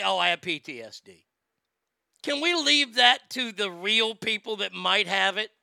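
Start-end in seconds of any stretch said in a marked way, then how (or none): 0.0-1.3 mocking quote. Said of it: "All you people that say".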